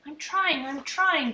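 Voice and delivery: put-on small boy hollering to his brother; hollered. A narrator's reading. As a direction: yell back from the next room. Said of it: "Fudge hollered".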